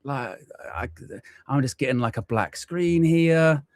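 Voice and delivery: high, mock-panicked muttering; retold panic. Streamer reenacting his live-stream panic, high and mock-frantic. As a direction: replay the moment the screen went black. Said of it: "I'm freaking out 'cause I'm like".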